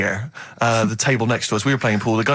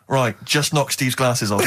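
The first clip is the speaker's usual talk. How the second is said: judo coach; 2 semitones lower than usual. Retold or imitated. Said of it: "other kids were being taught".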